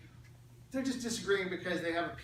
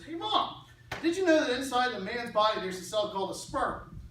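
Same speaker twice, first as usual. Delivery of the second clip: put-on high, eager kid's voice from the dinner table; a boy blurting out what he just learned; imitating his young son; 4 semitones higher, 3 dB louder than usual. Father retelling his son's dinner announcement, high and eager.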